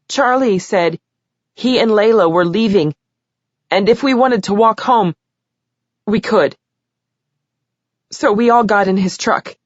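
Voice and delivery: lightly voiced girl, halting and upset; teen girl testifying. A narrator's reading. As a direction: tell it haltingly, holding back tears. Taryn continues testimony.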